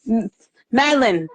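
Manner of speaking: rising, urgent plea to calm down; urgent warning. Retold or imitated. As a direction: warn Madeline he's about to snap. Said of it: "I'm going".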